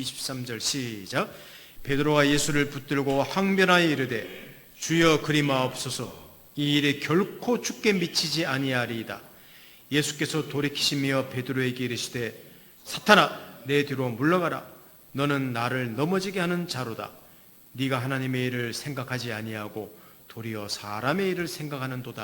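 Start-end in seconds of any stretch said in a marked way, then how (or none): 1.8-9.2 scripture reading. Acted. 9.9-22.2 scripture reading. Acted.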